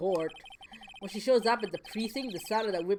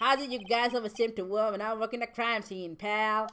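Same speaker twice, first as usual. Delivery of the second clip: bad put-on American accent; 2 semitones higher than usual. Voicing Gumshoe's dialogue aloud, bad American accent as Gumshoe. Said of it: "I have no good American accent".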